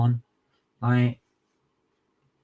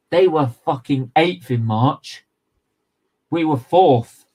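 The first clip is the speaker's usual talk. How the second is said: higher and louder in disbelief; furious rant; 3 semitones higher, 5 dB louder than usual. Real, not acted. Fan raging about Spurs to viewers, loud and furious. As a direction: shout the injustice.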